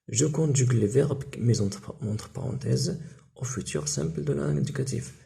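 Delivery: reading the exercise heading slowly; slow dictation. Shown as a demonstration. Teacher slowly reads the exercise instruction aloud to pupils. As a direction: spell out each word for the class. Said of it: "غنتصرفوا هاد الأفعال".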